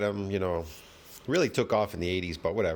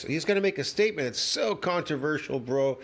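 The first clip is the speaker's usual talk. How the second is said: sarcastic; 3 semitones higher than usual. Acted. Mocking the clip's claim.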